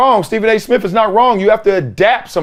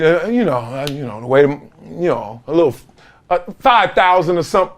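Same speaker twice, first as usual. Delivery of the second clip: hesitant borrower; 3 semitones lower, 3 dB quieter than usual. Retold or imitated. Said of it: "You're like".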